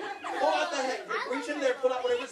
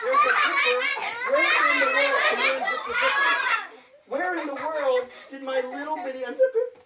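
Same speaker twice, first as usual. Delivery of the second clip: hammed-up dismay; 6 semitones higher than usual. Magician hams up lost handkerchief.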